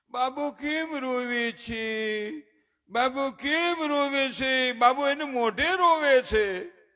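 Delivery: put-on mother fussing over a crying baby. Doting mom asks why the baby cries, slow coo. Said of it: "તા તો એની mummy, mom".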